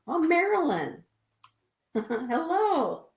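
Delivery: light up at the name; delighted greeting. Real, not acted. Spotting a viewer in the live chat, delighted greeting.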